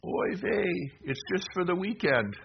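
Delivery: put-on high, comic Yiddish-accented punchline. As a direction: deliver it as a Jewish joke punchline in a Yiddish accent. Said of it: "And Joseph of Arimathea said".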